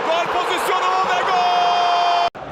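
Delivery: screaming football commentator. Real, not acted. Goal call in live commentary.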